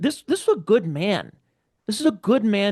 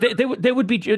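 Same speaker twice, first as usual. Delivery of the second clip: short bitter laugh through the words; 6 semitones higher, faster than usual. Real, not acted. Host imagining media celebrating his death, laughing bitterly. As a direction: laugh it off darkly.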